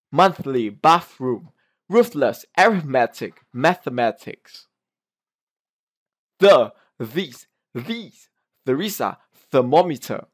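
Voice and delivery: word drill stressing the TH in MONTHLY, BATHROOM, THESE; clear TH sound. Shown as a demonstration. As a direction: articulate each TH carefully. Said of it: "T H sound, which you pronounce as".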